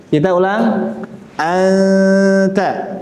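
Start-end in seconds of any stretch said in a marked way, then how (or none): 1.4-3.0 Anta with the n half hidden as a nasal hum; ikhfa, hidden nun. Shown as a demonstration. Teacher showing students ikhfa, Anta with a nasal hum for the nun. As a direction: let the n of Anta fade into a nasal hum before the t. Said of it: "Coba sekali lagi".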